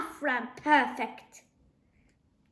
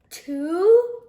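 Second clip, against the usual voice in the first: loud, higher count; counting loudly; 5 semitones higher, 9 dB louder than usual. A narrator's reading. Dad counting down before leaping off the table. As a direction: call the count out, pumped up.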